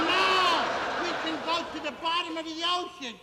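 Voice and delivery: high, urgent acted objection; alarmed protest. Captain warns his unconcerned wife of sinking, alarmed protest.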